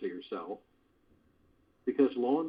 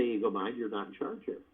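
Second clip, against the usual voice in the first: said lovingly; 3 dB quieter than usual. Shown as a demonstration. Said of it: "You say it lovingly".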